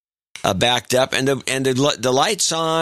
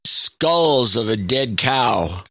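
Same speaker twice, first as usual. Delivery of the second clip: put-on phony Southern accent; 3 semitones higher than usual. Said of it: "although not quite as phony".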